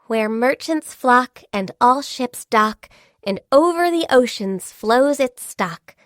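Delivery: slow, measured verse; deliberate, rhythmic recitation; recited saying. Acted. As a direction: recite it like a well-known rhyme. People say this in praise.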